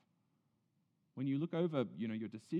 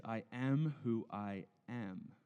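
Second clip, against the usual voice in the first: slow solemn God; much slower than usual. Retold or imitated. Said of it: "he says".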